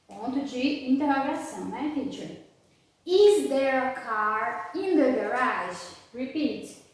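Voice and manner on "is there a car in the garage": slow, deliberate question tune on "Is there a car in the garage?"; question intonation. Shown as a demonstration. Teacher has class repeat "Is there a car in the garage?", question intonation. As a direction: ask "Is there a car in the garage?" slowly, as if really wanting to know. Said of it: "falar como se realmente eu estivesse perguntando".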